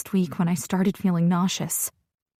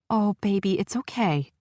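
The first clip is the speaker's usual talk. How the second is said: soothing. Acted. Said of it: "trying to calm me down".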